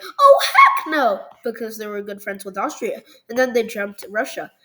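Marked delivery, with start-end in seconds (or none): 0.0-1.2 much higher, louder and slow, laughing through it; laughing mock outrage. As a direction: stretch it out, cracking up. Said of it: "the Germans were like".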